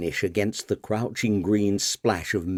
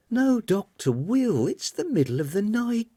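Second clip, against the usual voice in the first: crying out; 12 semitones higher than usual. Acted. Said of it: "cried Marian".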